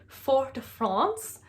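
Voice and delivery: "Fort de France" with France rhyming with "fonce"; attempted French "Fort de France", silent t in Fort; French-style pronunciation. Shown as a demonstration. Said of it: "say it with the right accent".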